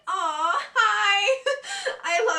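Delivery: high loud hi, teary laugh; touched squeal. Real, not acted. Vlogger touched by a friend's note, teary high squeal.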